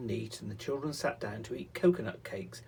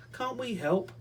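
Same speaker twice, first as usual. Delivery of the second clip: put-on eager children; 12 semitones higher, 4 dB louder than usual. Children pleading.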